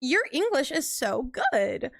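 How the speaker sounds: mock-amazed compliment with a long "Oh"; imitated patronizing surprise. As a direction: imitate someone condescendingly impressed, drawing it out. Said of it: "people will literally be like".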